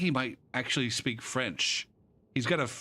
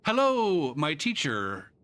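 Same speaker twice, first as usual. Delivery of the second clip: mock sing-song greeting; 4 semitones higher, slower than usual. Teacher mimicking the student's email greeting. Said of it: "And then I respond".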